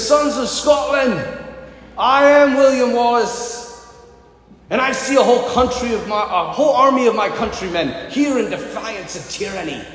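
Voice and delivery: put-on William Wallace rallying in a Scottish accent; best-effort Scottish battle speech. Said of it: "use my best Scottish accent".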